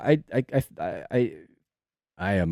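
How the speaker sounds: very slow, soft, halting stutter on I. Feeling out of it today while explaining their work, the speaker starts stuttering. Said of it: "Wow, I'm stuttering".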